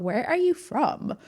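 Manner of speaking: slow, drawn-out incredulous questioning; mock baffled commenters. TikTok commenters ripping into the accent, slow and baffled. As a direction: imitate a puzzled critic, dragging the words. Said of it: "They're like".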